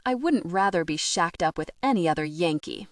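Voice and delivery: hammed-up Southern drawl, lightly done; a jokey, terrible Southern accent; bad Southern accent. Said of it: "in a horrible Southern drawl".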